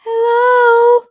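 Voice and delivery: loud, high hello; calling out. Real, not acted. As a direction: call out to the screen. Calling out to frozen call.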